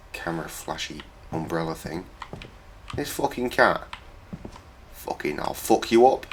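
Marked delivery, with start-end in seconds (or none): 4.9-6.3 cat voice. Pretend. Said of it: "said the cat".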